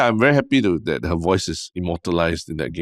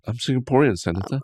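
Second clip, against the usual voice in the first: quoting the senator hearing; 5 semitones higher than usual. Retold or imitated. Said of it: "is that a Singaporean accent".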